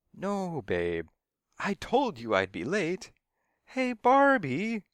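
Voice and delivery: very high, loud, drawn-out call; calling out in protest. A narrator's reading. Man trying to keep Barbie on the phone, high loud call.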